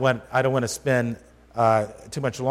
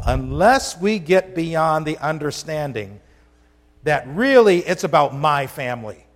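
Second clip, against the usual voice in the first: 1 preaching emphasis; 3 semitones higher, 5 dB louder than usual. Real, not acted. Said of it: "preaching with emphasis".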